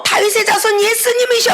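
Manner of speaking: 높은 음으로 매달리듯 외치는 간청 흉내; 예수님께 매달리는 소경을 재연하듯 높게. Retold or imitated. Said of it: "하고 매달렸는데". (높게 애원하는 목소리)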